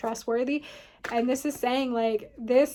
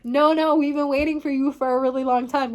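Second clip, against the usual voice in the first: loud, quick "no, no", eager to welcome; 2 semitones higher, 5 dB louder, faster than usual. Retold or imitated. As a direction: urge the stranger in, loud and fast. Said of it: "they're saying".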